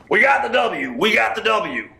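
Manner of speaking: high, loud imitation of a gloating winner; mock victory yell. Imitating a man celebrating at a soccer game, mock yelling. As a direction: yell it like a triumphant soccer fan. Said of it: "starts yelling".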